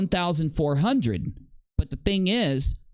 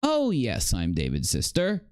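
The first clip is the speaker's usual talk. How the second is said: mocking imitation of the clip; 3 semitones lower than usual. Streamer mocks the phone caller's answer, sing-song mimic. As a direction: parrot the caller's line to mock it. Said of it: "Hold on, let me do it again".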